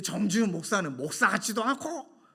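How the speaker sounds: mock indignation, rising at the end; retold angry outburst. Imitating the church member who insulted the pastor, angry. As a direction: imitate an irate caller's complaint. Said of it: "막 이렇게 화를 내시고".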